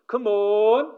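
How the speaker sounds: high, loud "Come on" call to the herd; rancher calling cows. Retold or imitated. Rancher calling his cows to come. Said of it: "he says in a certain inflection".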